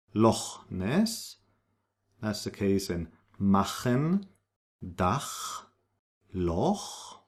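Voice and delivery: machen, Dach, Loch with a rasped back ch; throaty ach. Shown as a demonstration. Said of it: "like K H".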